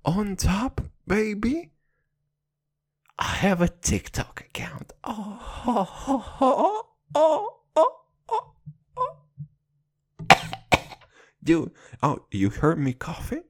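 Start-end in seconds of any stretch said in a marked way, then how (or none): 5.0-10.3 mock wail. Mock wailing after TikTok confession.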